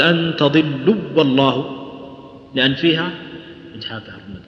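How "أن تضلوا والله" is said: تضلوا والله with the long و swallowed into the next و; slow wrong demo of تضلوا والله, vowel merged; a deliberately merged تضلوا والله; wrong merged reading. Shown as a demonstration. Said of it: "ما نقول".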